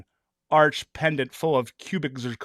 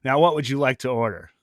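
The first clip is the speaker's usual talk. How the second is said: stern. Retold or imitated. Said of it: "said with a stern tone".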